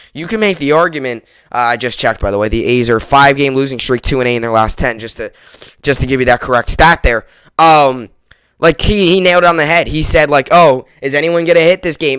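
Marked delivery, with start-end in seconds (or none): 10.5-12.2 imitated sarcastic tone. Retelling a broadcaster's remark during a game: imitating a sarcastic remark. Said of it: "And he made it sarcastic".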